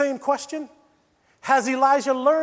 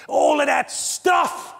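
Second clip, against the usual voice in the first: shout; 2 semitones higher, 4 dB louder, slower than usual. Real, not acted. Preacher building to a shout.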